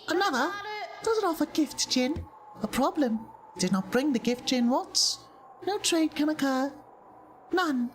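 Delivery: high-pitched stilted creature voice; Jin, demanding creature. Acted. Jin sends visitor to seek the gift, high stilted voice.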